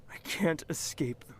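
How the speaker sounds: whispered confession; whisper, haunted. Real, not acted. Narrator haunted by memories.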